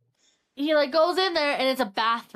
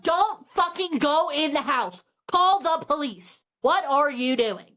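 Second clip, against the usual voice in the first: raised, emphatic plea to a character; exasperated warning; 3 semitones higher than usual. Retold or imitated. Reader talking back to the book's character, exasperated warning. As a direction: warn him off, mildly exasperated.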